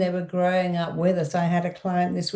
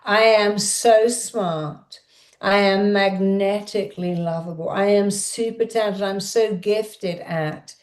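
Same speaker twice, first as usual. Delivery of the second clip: shouting affirmations. Shown as a demonstration. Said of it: "Shout it out".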